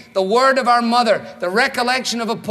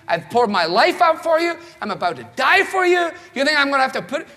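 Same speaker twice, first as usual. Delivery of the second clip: mock exasperated rant; 2 semitones higher than usual. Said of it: "how we would operate with a group".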